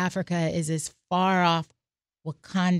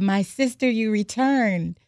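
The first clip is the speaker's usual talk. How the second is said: joyful greeting; 4 semitones higher, 3 dB louder, slower than usual. Retold or imitated. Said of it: "she screamed".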